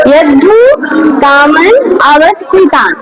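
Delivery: ইয়াদ্ধু, কামান, অবস্থিতান said apart, each with a small rise; word by word recitation. Shown as a demonstration. Teacher has the class repeat the phrase word by word. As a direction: give each word separately. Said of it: "বলো".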